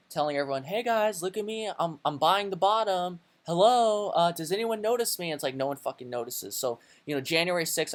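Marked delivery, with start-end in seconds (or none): 0.6-5.3 high, loud pleading call to be noticed; mock screaming for attention. Trader mocking himself yelling that he's buying the bottom, high pleading shout. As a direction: wave your arms and yell to a crowd that ignores you. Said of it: "like, screaming over here".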